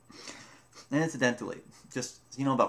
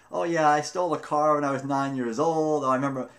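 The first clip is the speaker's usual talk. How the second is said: boastful prisoners; 4 semitones higher, 6 dB louder than usual. Retold or imitated. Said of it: "they're telling the stories about".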